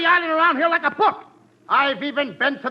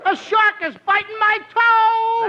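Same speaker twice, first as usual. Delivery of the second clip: panicky; 6 semitones higher than usual. Acted. Shark panic.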